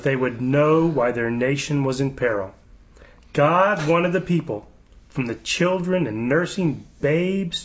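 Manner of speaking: slow, measured scripture-style reading; solemn read-aloud. Acted. Host reads governor's prayer website to co-hosts, slow proclamation.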